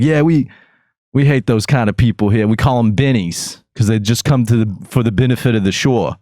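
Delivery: exaggerated imitation of a Jersey accent; thick Jersey accent. Retelling a guest's gripe about bennies, thick Jersey accent. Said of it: "giving a, a much thicker Jersey accent".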